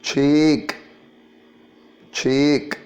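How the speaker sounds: "Cheek" with a drawn-out ee; long EE vowel. Shown as a demonstration. Teacher showing the double E, long-vowelled "Cheek". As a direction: say "Cheek" slowly, holding the ee. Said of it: "listen to the word slowly".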